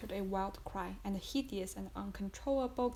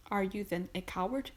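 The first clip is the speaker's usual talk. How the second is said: louder scornful question; contemptuous; 4 dB louder than usual. Acted. Husband scorning his poisoner wife, contemptuous and louder. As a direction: sneer the word coward at her. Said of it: "in a contemptuous voice".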